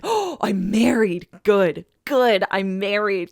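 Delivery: slow, relieved mock Sookie; quoting Sookie. Host quoting Sookie settling on a cover story, slow relief. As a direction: savor the idea with slow relief. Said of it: "And she's like".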